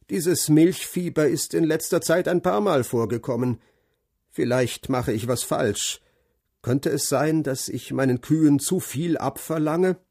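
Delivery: lightly voiced, matter-of-fact farmer; gruff farmer. Narrator voices farmer Brown. (leicht gespielter, nüchterner Bauer)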